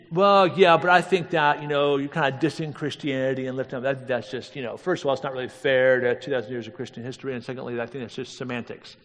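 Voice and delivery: lightly mocked know-it-all objection; mocking objector. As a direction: poke fun at the critic's protest. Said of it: "even though I'm now making fun of you".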